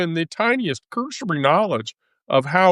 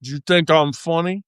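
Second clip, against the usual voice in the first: Joe Pesci. Retold or imitated. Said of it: "watch Joe Pesci".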